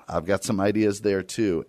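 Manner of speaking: ordinary talk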